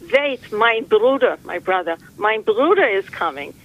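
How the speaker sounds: lightly voiced old Jewish woman; Jewish accent. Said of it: "I'm gonna do a Jewish accent".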